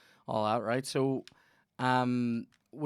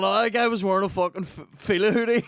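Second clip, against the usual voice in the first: imitating himself; 7 semitones higher, 9 dB louder, faster than usual. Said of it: "I'm sitting there going".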